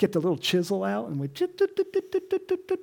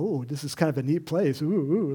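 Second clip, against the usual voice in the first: mock tourist awe; 4 semitones lower than usual. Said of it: "look and go".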